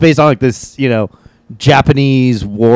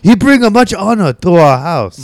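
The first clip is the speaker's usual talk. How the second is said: put-on Asian accent; 6 semitones higher than usual. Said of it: "doing a really thick Asian accent".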